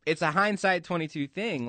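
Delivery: says twenty-two by mistake; casual slip, saying twenty-two; slip of the tongue. Real, not acted. Misspeaks the phrase while chatting on air. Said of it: "Twenty twenty".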